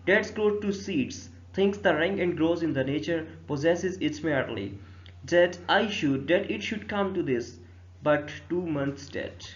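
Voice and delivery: very slow, measured reading of the verse; verse recitation. Acted. Teacher reading Hamlet's first soliloquy to students, slow recitation. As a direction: recite line by line, drawing the words out.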